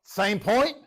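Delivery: high, loud, wide-eyed question; mock surprise. Teacher to class about repeated point, mock amazement. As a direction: play up the disbelief. Reacting again to same point.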